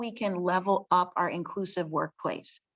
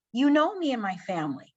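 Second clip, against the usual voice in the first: speaking up for her; 8 semitones higher than usual. Shown as a demonstration. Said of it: "Say something".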